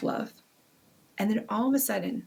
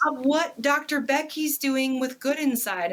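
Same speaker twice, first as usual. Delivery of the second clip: awed; 5 semitones higher than usual. Retold or imitated. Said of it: "I was just like".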